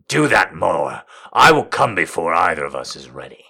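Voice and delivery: breathy pleading. Acted. Heroine pleads, timbre shifted.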